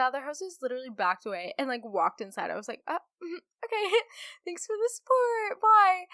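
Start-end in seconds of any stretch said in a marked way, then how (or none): 2.9-6.1 high, loud mock-cheerful sarcasm with a laugh; sarcastic thanks. Hostess to coworker who walked away, loud sarcastic high-pitched thanks. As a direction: brightly fake thanks, dripping with sarcasm.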